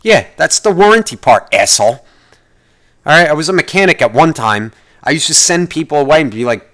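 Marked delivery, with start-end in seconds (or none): 0.0-2.0 angry retort. Real, not acted.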